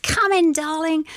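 high-pitched mock Cockney "Come in, darling"; Cockney Dolly imitation. Guest imitating Dolly's welcome, accidentally Cockney and high. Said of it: "not in that accent, 'cause that's Cockney".

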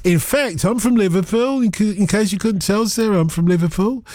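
a mock American telling the caller he's from Liverpool; American accent. Host teasing caller Sarah in a mock American accent. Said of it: "I'm American".

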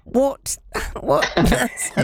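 high-pitched, breaking into laughter; amused disbelief. Real, not acted. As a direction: ask it incredulously, laughing through the words. Amused disbelief at producer's frozen feces.

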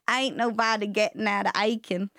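put-on Southern twang; Southern accent. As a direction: try out a folksy Southern accent. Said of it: "your Southern accent should come in".

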